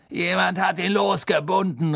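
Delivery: high, loud angry grumble; grousing. Acted. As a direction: snap it out as the irate executioner. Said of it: "raunzte der Henker".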